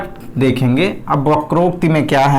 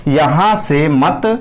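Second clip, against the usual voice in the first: "यहाँ से मत" drawn out slowly; slow stressed phrasing; much slower than usual. Shown as a demonstration. Teacher stresses where the pause falls. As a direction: stretch "यहाँ से मत" out to mark the pause point. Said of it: "आपने यहाँ काम मारा है".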